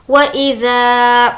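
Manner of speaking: इज़ा with ज़ा drawn out long; long zaa. Shown as a demonstration. Teacher stretching ज़ा to show alif madd. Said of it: "ज़ा अलिफ मद्दा है, खींचकर पढ़ेंगे".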